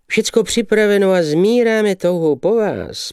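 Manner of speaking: high, eager calling out; a gushing young man calls out; calling out eagerly. Acted. The young man calls to the lady, high and eager. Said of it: "povikoval mladík".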